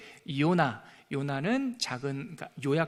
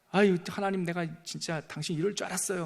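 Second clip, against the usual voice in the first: irritated whine. Retold or imitated. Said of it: "막 짜증을 냈는데".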